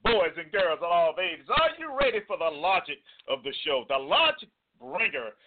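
drawn-out showman announcement; slow, booming circus announcer; ringmaster. Acted. Announcer introduces co-host segment.

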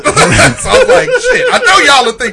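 high laughing retelling. Real, not acted. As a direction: laugh through the quote. Laughing while retelling own thought.

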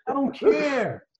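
dismissive. Real, not acted. Dismissive end to rant.

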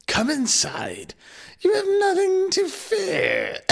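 very high, slow crone; witch voice. Acted. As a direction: coax them in sweetly. Witch luring children.

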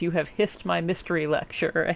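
"hissed my mystery lecture" with swapped first sounds; spoonerism. Retold or imitated. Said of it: "Thinking of the Spoonerisms".

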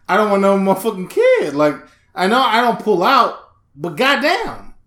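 hammed-up indignant complaint; mock exasperated father. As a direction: protest it like a panicked dad-to-be. Acts father reacting to pregnancy news.

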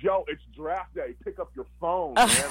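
high, urgent call to wake up; friend waking him. Retold or imitated. Buddy urging him to answer the draft call, high and excited. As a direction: hype friend yelling him awake. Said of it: "one of my boys goes".

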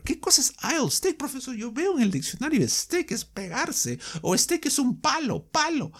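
squeaky confused pupil voice; high, hushed student asking the teacher; puzzled student. Pretend.

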